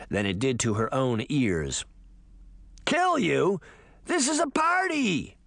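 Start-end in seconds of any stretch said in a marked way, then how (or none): 2.8-5.4 high, mocking monster taunt; a creepy creature toying with its prey; spider monster voice. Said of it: "the voice replied".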